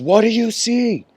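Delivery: high, firm teacher's question; stern master archer. Retold or imitated. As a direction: ask the test question from above. Master archer asks Arjuna.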